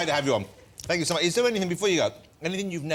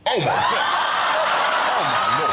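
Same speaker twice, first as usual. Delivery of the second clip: deep gas voice. Real, not acted. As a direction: lower voice after inhaling gas. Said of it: "Wait, wait, wait, now start talking".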